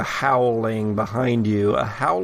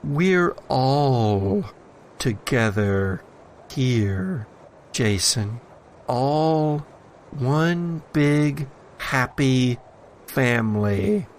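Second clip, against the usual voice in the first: lightly voiced sinister entity. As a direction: lure him in gently, menacingly. Entity in satchel tempts Jason.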